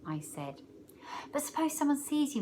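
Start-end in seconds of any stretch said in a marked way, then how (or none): 1.3-2.4 unhappy. A narrator's reading. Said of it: "Marlon said unhappily".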